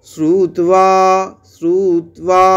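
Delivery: শ্রুত্বা said in one push, ব as ওয়া; Sanskrit pronunciation. Shown as a demonstration. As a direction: run শ্রুত্বা together in one breath, shru-twa. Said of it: "বলছি একসাথে এক ঝোঁকে". (এক ঝোঁকে শ্রুত্বা, ব-কে ওয়া)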